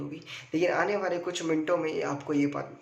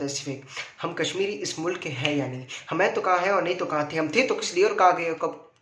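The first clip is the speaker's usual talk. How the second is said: lightly dramatized film monologue, building louder; Haider film dialogue; 3 dB louder than usual. Retold or imitated. Performer quoting a famous film to the audience, dramatic recital. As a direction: recite it as a film speech, rising into questioning. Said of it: "famous picture Haider का dialogue".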